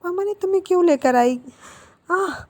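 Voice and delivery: high frustrated cry ending in a groan; exasperated outburst. Acted. Boy fed up with his friend groans to himself: high exasperated outburst. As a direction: throw up your hands at him.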